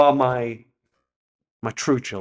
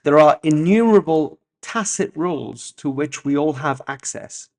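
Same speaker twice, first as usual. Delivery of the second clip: essay reading; 4 dB louder than usual. Real, not acted. Reads essay aloud.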